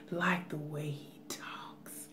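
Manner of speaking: hushed imitation of a soft-spoken talker; Michael A S M R. Telling viewers she likes how he talks, soft-spoken. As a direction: drop into a soft whisper. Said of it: "I'm not mocking him".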